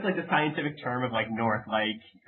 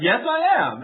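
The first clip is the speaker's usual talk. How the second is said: weatherman's reply; 11 semitones higher, 6 dB louder than usual. Retold or imitated. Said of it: "And he's like".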